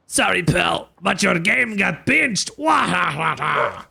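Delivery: slow, taunting mock laugh; lightly voiced sneering punk; gloating punk. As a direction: rub it in like a cocky thug.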